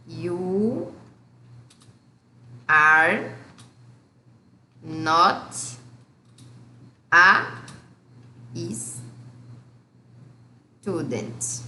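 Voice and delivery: each word said alone with long pauses. Shown as a demonstration. Teacher dictates the negative sentence word by word. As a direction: lay it out one word at a time. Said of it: "Então, aqui".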